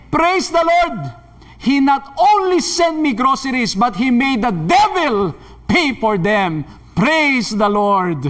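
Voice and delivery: acted old woman's jubilant praise; shouted praise. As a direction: proclaim it triumphantly, stretching the words. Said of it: "lalo pa siyang sumigaw".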